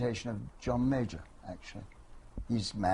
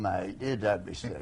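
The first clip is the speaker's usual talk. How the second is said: Cockney accent. Shown as a demonstration. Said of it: "can you still speak in your Cockney accent?".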